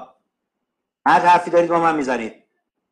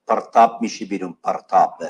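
stern warning; 6 semitones lower, much faster than usual. Real, not acted. Teacher warns a talking student.

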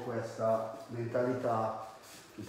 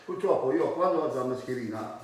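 through a face mask. Real, not acted. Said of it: "devo lasciare un po' la mascherina giù".

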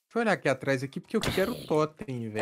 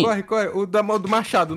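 shouting; 3 semitones higher, 7 dB louder than usual. Real, not acted. Urging teammate to flee.

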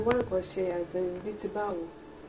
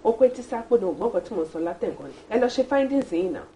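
irritated retort; 4 dB louder, faster than usual. Acted. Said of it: "Why are you talking like this".

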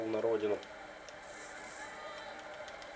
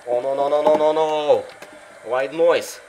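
excited call; 3 semitones higher, 9 dB louder, slower than usual. Real, not acted. Calling a big game move.

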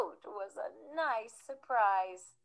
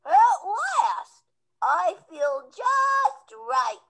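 happy; 6 semitones higher, 8 dB louder, much slower than usual. Acted. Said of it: "he said".

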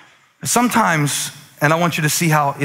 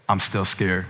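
put-on little girl voice; 8 semitones lower, 6 dB quieter than usual. Daughter's scared reply quoted.

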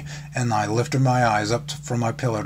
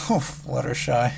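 crying out. Acted. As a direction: sigh her name in mild grief. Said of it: "I cried".

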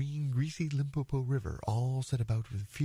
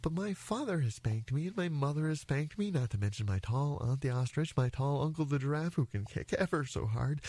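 lightly voiced little elephant, higher pitch; polite child; 6 semitones higher than usual. Elephant's child explains his spankings to the crocodile, politely. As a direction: list it earnestly, with careful manners. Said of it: "said the elephant's child most politely".

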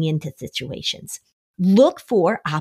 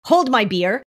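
higher mock bro bravado; cocky daredevil; 6 semitones higher than usual. Host imitating a reckless guy about to stunt, mock bravado. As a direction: swagger through it like he's about to stunt. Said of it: "Where he says".

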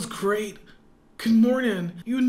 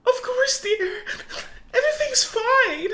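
forced cheer; 11 semitones higher than usual. Acted. Mother hiding bad news from child.

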